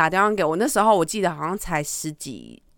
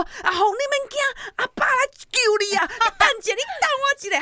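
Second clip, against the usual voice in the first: put-on higher, anxious old grandpa soothing down the phone; panicked grandpa; much faster than usual. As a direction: imitate grandpa frantically reassuring. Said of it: "我阿公怎么这么紧张的声音". (模仿阿公紧张地安慰孩子)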